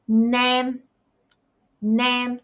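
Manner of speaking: "name" said with a long drawn vowel; long vowel demo. Shown as a demonstration. Teacher showing vowel length to students, drawn out. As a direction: stretch the vowel in "name" for the class. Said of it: "notice the length of the vowel sound".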